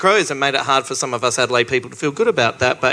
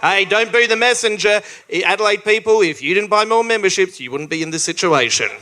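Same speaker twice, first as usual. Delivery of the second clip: raised-pitch address to the audience; pitched-up appeal to a local crowd; playing to the crowd; 6 semitones higher than usual. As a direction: address the crowd, high then settling at the end. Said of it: "Sorry for playing to the crowd".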